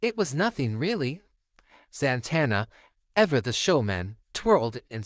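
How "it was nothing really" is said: put-on high, bashful girl's voice; a young girl brushing off thanks, high and shy; high-pitched girl. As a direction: pitch it up, modest and grateful. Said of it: "her high-pitched voice".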